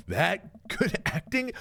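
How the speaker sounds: slow, sneering cinephile drawl; haughty movie snob; snobby film critic. Acted. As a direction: look down on mainstream films. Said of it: "You go".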